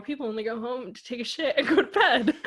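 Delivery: the phrase said through laughter; laughing. Real, not acted. Repeating the drummer's advice to the host, laughing. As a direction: chuckle through the punchline.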